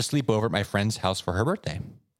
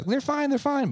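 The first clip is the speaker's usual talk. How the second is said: very high, quick reassurance; high-pitched mock reassurance; dismissive quote. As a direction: squeak it out as a breezy all-clear. Imitates checking the Furbies.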